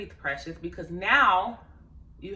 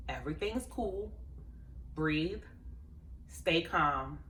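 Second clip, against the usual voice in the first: self-soothing; 8 dB quieter, slower than usual. Retold or imitated. Calming herself while crying.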